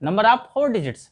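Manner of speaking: Number of four digits repeated slowly, four stressed; teacher answering the class question slowly. Shown as a demonstration. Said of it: "ये कितने digits के हैं?".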